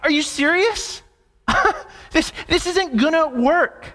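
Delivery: mock an incredulous laugh between phrases; scoffing laugh. Sarah laughing at God's promise, incredulous. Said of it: "So she laughs".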